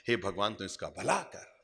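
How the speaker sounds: low, soft acted blessing; mild benevolent prayer. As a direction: quietly voice a prayer for the wrongdoer. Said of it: "भगवान ने मंगल कामना की थी". (धीमी आवाज़ में मंगल कामना)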